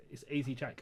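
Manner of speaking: "Chike" as one syllable, like "chike" rhyming with "bike"; Americanised name pronunciation. Real, not acted. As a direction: say "Chike" to rhyme with "hike". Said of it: "don't know how to pronounce".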